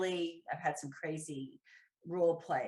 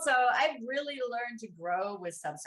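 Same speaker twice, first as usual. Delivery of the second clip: normal talking voice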